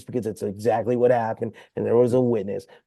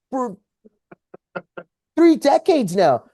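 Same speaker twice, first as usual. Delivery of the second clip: laughing; 9 semitones higher, 4 dB louder than usual. Real, not acted. Laughing aside to co-host.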